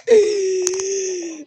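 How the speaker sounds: long, high whine; high drawn-out squeal. Real, not acted. Returns to the game.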